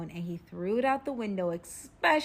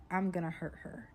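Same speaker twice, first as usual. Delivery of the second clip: retold menace; 4 semitones lower, 6 dB quieter than usual. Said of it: "like an angry tink-, twinkle".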